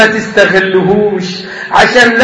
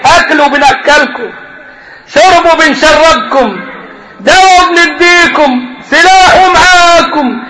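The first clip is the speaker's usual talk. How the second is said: building mock boast; 5 semitones higher than usual.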